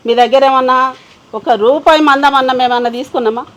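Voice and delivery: indignant outburst; angry repeat. Acted. Angry woman confronting creditors.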